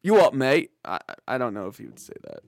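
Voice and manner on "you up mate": mock Cockney. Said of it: "he's not Cockney".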